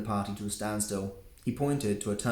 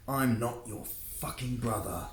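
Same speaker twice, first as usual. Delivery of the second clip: spat; 2 semitones higher than usual. Acted. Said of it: "he spat".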